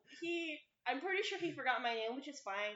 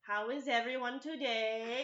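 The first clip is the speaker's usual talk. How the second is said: slow professor greeting; 4 dB louder, slower than usual. Retold or imitated.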